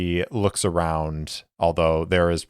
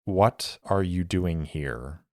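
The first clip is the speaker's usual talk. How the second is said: a touch slower and firmer, edge in the voice; steely; 3 dB quieter, slower than usual. Acted. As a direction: drop the politeness and press. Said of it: "with a little more steel in her voice".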